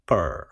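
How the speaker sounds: "per" as a separate English second beat of whisper; second syllable alone. Shown as a demonstration. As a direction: say just "per", with an English r-coloured vowel. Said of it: "と言ってから". (「per」を二拍目として単独で)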